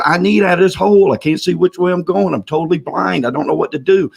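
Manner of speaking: high-pitched, mild mock yell; mock scream. Stuck man pleads to his friend, mild mock scream. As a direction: plead from the hole, only half yelling. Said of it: "He keeps screaming".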